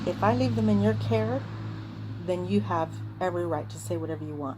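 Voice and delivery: retold furious mother; angry. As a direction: lay down the law, furious. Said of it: "because I was really mad".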